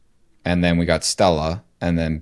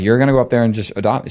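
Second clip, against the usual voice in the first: fast, higher, louder mock-annoyed husband; hammed-up grumble at the wife, quick and pushed up; a husband half-jokingly accusing his wife, mock annoyed; 6 semitones higher, 5 dB louder, much faster than usual. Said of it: "an aggravated or an annoyed husband would".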